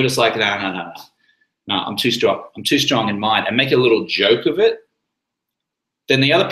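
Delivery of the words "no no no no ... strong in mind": easy, self-assured refusal; absolute confidence. Shown as a demonstration. Refusing a drink with full confidence. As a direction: own it completely. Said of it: "with absolute confidence in yourself".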